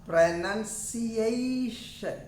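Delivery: pronunciation stretched out syllable by syllable; teacher spelling out pronunciation by sound; model word, very slow. Shown as a demonstration. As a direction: draw out pronunciation very slowly, nun not noun. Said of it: "and this".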